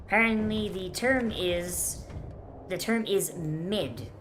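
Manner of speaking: slow, deadpan slang lesson; ironic zoomer. Pretend. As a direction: spell out the slang with irony. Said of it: "I'm being taught new, new hip American Zoomer slang".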